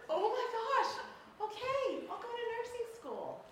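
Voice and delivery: high, laughing surrender; giddy laughter. Retold or imitated. Millie answering Hal's peanut joke, high and laughing. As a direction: melt into laughter. Accepting his sweet offer.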